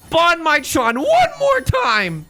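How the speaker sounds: very high, loud showtune belt, last words stretched slow; Lin-Manuel Miranda impression. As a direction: belt it like a Broadway star's big finale. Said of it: "in the Lin-Manuel Miranda voice".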